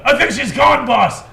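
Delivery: high, loud report; yelling. Acted. Henchman yelling to his boss. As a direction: call it out to the boss. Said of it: "this guy yells out".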